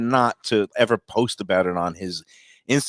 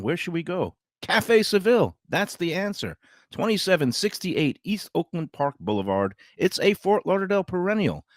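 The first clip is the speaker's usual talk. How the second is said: upbeat pitchman read; radio ad read. Acted. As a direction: sell it like a local radio host. Reads live radio ads.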